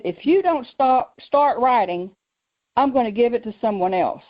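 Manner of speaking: retold stern warning, measured pace. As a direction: deliver God's ultimatum firmly.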